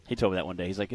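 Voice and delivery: normal talking voice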